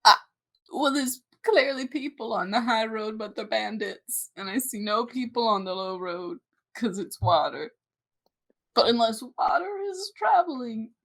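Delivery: a hint of old guide reasoning; very old man. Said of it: "I was gonna do an old man voice".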